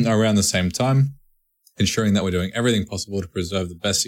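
even, measured reading of an article; news article read-aloud. Real, not acted. Podcast host reading listeners a game delay story, news read-aloud. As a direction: read the statement out plainly.

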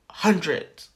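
mimicked low, dismissive answer; condescending. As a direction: imitate a customer talking down to someone stupid. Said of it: "Así bien estúpido".

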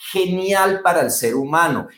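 GENIAL leaned on at the last syllable; stressed syllable. Shown as a demonstration. Coach showing the tonic syllable, stressed syllable. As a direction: give the AL of GENIAL extra weight. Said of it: "mira lo que hago".

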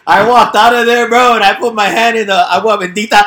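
high loud laughing talk; laughing loudly. Real, not acted. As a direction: talk through big laughter. Laughing through boasting story.

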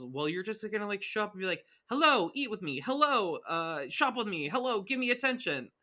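high, loud sing-out mocking a needy mom; attention-hungry mom impression. Host mimicking a daughter teasing her mom, attention-hungry. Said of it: "can you redo the impression".

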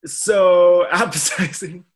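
slow, sarcastic drawl; mock delight, drawn out. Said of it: "I was like".

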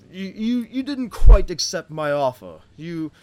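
a lightly voiced king, a little put out. King questioning a half-elf about the offer, mildly put out.

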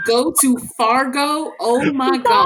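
high, loud and drawn out; excited exclamation. Real, not acted. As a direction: exclaim it loudly, stretching the words. Exclaiming about Fargo's freaks.

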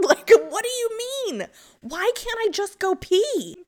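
high, loud laughing disbelief; frustrated mom laughing at the absurdity; laughing exasperation. Real, not acted. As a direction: laugh through the complaint.

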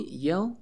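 "yell" as a clear model word, rising at the end; "yell" as a standalone vocabulary word, not shouted; model pronunciation. Shown as a demonstration. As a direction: say "yell" for learners to repeat, tune lifting. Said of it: "repeat after me".

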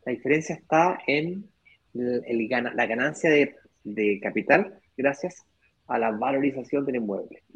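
hiccuping between words; with hiccups. Real, not acted. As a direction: talk through the hiccups. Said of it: "estoy con hipo".

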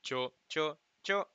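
"cho, cho, cho" with a different tone on each; Mandarin tone demo. Shown as a demonstration. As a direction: say "cho" as three distinct tonal words. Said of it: "esos son tres palabras diferentes".

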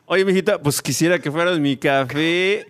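hammed-up barrio charm; Flowers barrio style. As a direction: hit on her like a swaggering homeboy. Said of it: "This is how Flowers would say it".

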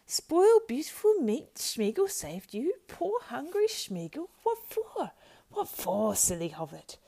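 very high, loud creature wail; dismayed squealing. A narrator's reading. Gollum protests at spoiling the meat, wailing. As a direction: wail in dismay, dragging the words. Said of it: "squealed Gollum in dismay".

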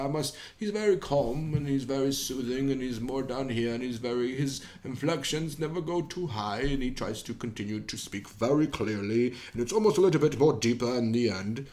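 low, soft, measured refined voice; Patrick Stewart impression. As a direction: keep it calm and down low. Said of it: "Now I'm doing Patrick Stewart".

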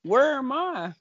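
lightly voiced bewildered trainee; slow, lost questioning; confused. Joining the parody of the confused trainee, mock bewilderment. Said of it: "So confused".

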